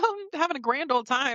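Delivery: giggly, carefree voice, giggling through words. Retelling how a character reads a book and giggles: imitating a giggling character. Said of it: "reading a book and giggling and being like".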